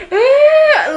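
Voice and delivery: high, loud laugh-sob; laugh-crying wail. Retold or imitated. Imitating Zara crying with laughter at the prank, high wail. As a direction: burst into a wailing laugh-cry. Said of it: "laughing so much that she started crying".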